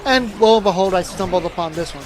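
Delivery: talking through a yawn; sleepy, mid-yawn words. Real, not acted. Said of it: "Sorry, I am yawning while I am".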